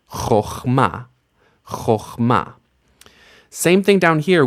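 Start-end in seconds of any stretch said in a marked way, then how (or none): 0.1-2.5 "Chochma" with OH in the first syllable; O sound. Shown as a demonstration. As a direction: say "Chochma" as khokh-MA, rounded o first. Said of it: "it becomes an O sound".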